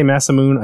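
Masamune said as "massa-moon"; old Americanized pronunciation. Shown as a demonstration. Recalling how Westerners said it, old Americanized pronunciation. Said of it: "I used to say Masamune".

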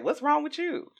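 high, put-on innocent question; mock bewilderment. Gaslighter stepping back after triggering her, mock baffled. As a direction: step back and ask as if baffled.

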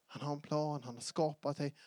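ordinary talk

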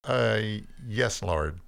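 hesitant, meek reply; slightly humbled. A narrator's reading. Cain answers God's warning, slightly humbled. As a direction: back down a little. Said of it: "in a slightly more humble tone".

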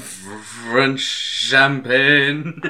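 very slow, drawn-out champagne; Orson Welles voice. Retold or imitated. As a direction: stretch every syllable grandly.

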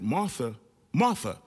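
second Martha rising sharp and firm; calling to attention. Retold or imitated. Jesus calls distracted Martha to attention, the second Martha sharp. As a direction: snap a distracted woman back to focus. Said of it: "He was calling her into attention".

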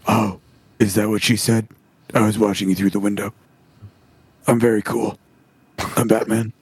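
low, halting mock-cool murmur; Batman as dweeb. Masked dweeb talking to her, low mock-cool voice. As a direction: lightly imitate a dweeb, low with long pauses. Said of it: "a big dweeb where he's like".

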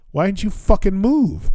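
high-pitched exasperated demand; retold pissed-off outburst. Late traveler to old man blocking the escalator, pissed off. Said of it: "then I was fucking pissed".

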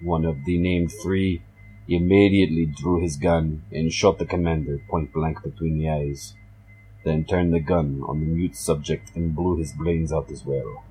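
put-on storyteller in a Russian accent. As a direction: read it with a heavy Russian accent. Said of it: "my Russian accent".

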